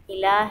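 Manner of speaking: इलाहिन्नास with the हिन held in the nose; nasal ghunna demo. Shown as a demonstration. Quran teacher demonstrating ghunna on इलाहिन्नास. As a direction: hum the नून of इलाहिन्नास through the nose. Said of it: "ये जो हिन करना है ना".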